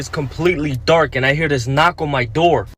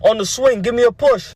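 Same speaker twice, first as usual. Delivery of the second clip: put-on drunk yell back; 6 semitones higher than usual. Drunk neighbor calling from the swing, high mock yell. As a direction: call out from the porch swing like a drunk man. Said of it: "Then he yells back".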